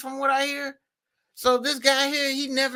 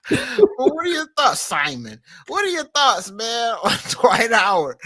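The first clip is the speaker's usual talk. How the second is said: louder, laughing as the question comes out; real amusement; 5 dB louder than usual. Real, not acted. Host asking Simon his thoughts on Dwight Howard, laughing. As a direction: ask it through leftover laughter.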